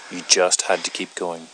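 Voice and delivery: now let the anger show; angry. Acted. Repeats it louder, angrier.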